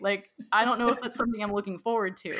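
doubtful, half-laughing retold reluctance; skeptical. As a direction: play your old wary self, unsure you want this. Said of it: "I was really skeptical".

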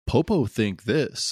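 slow, simple-grammar character quote; lightly imitated slow talker; Popo. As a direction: spell it out slowly, word by word. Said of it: "but the Schlubs say".

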